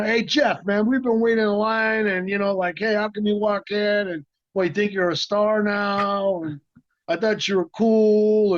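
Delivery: imitating pissed-off guys. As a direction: retell the jealous actors' gripe, a bit high and half-playful. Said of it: "they're all pissed off".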